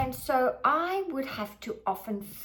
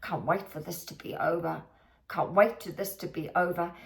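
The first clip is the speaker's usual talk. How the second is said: fed-up mutter; 5 semitones lower, faster than usual. Retold or imitated. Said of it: "I would say this all the time".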